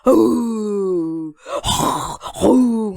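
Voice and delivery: long, drawn-out imitated roar; lion roar. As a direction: roar like the king of beasts. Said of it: "동물의 왕인 라이언 킹이에요". (길게 끄는 사자 울음소리 흉내)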